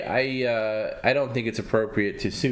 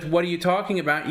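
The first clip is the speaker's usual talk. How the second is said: mock interrupting; 6 semitones higher than usual. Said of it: "instead of interrupting me with".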